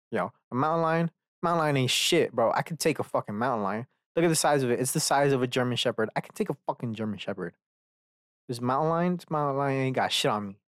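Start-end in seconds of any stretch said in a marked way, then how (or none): 0.5-2.5 lightly mocked macho bragging, higher pitch; fake macho man. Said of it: "these fucking fake ass macho men". 2.5-10.6 lightly imitated macho braggart; mock a tough guy's boasting, lightly; fake macho man. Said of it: "these fucking fake ass macho men".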